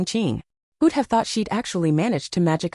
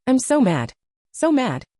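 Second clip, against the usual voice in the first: fuming, pitched-up complaint; so mad; 7 semitones higher than usual. A narrator's reading. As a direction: blurt out the fury. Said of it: "ranting a blue streak".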